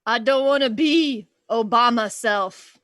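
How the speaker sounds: slow, put-on delivery; hammed-up joke payoff; drawn-out punchline. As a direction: stretch the pun out slowly. Punchline as Obama, song parody.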